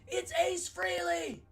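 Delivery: high, slow, loud holler; imitated yelling. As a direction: stretch out the big reveal in a mock yell. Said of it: "was yelling at me".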